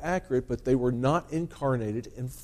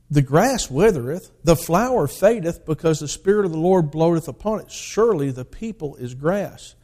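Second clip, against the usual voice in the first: raised, emphatic scripture proclamation; lightly voiced answering God; 5 semitones higher, 5 dB louder than usual. God answering the doubting prophet, lightly acted, emphatic proclamation. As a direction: declaim the verse as a firm reply. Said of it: "He said".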